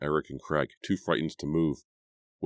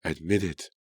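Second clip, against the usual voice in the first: mild firmness. Acted. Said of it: "more loudly, more firmly".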